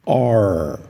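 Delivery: R said as ar, like the Portuguese word ar; English letter R. Shown as a demonstration. Teacher shows the letter R, said like Portuguese ar. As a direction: say ar, as in the wind. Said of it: "Esse ar também é semelhante à pronúncia".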